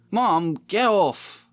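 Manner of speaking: put-on high, drawn-out whiny boy; Ron protesting. Ron whining at mum rubbing his nose, drawn-out whine. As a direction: squirm away and whine at mum.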